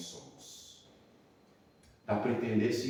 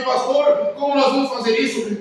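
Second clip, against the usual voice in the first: retold tearful plea; 12 semitones higher, 8 dB louder than usual. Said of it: "E ela começou a chorar também".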